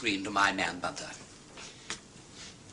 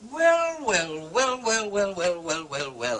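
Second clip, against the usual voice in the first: teasing tone; 4 semitones higher, much slower than usual. Acted. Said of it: "It's no good taking that tone with us".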